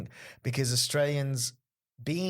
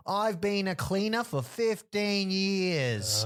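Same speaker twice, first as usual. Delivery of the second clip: mock heckler; 8 semitones higher, much slower than usual. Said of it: "And the guy goes".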